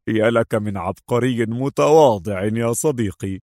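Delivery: amused admiration; admiring. A narrator's reading. Agent teasing his modest friend, amused and admiring. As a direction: tease a friend with praise. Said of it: "وهو يقول في إعجاب".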